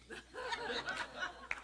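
high breathy laugh; delighted laugh. Real, not acted. Preacher laughing at the coworker's answer. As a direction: laugh out with glee.

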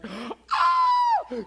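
very high, loud shocked shriek; friends' scream. Retold or imitated. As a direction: scream in sudden amazement. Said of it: "her friends are like".

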